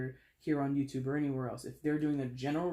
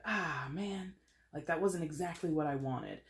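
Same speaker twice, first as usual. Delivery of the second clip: aw-shucks disappointment. Acted. Reader voicing Leo's letdown, aw-shucks disappointment. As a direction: sigh it out as a mild letdown. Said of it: "that's more the tone".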